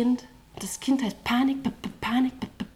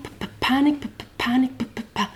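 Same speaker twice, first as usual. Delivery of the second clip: stuttered panic chorus; faster than usual. Acted.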